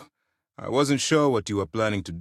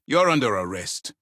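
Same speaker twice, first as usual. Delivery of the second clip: firm, louder command; stern arrest order; 5 dB louder than usual. Acted. Officer arresting an offender, stern. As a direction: announce the arrest with authority.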